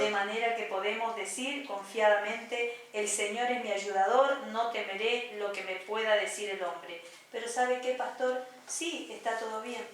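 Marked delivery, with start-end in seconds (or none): 0.0-7.0 Bible reading aloud. Real, not acted.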